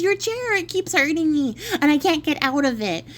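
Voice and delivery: high, whiny little demon complaining; the minor demon whining to Jack, high and pained; whiny pleading demon. Acted. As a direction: beg in a high pained squeak.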